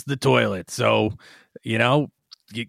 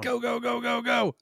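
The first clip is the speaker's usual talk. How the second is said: urging hurry; 10 semitones higher, 7 dB quieter than usual. Acted. Players urged to hurry into portal.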